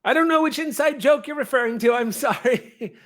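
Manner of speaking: high, loud gnome, breaking into a laugh; high gnome voice with a laughing apology. Acted. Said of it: "he looks at you for a second and goes".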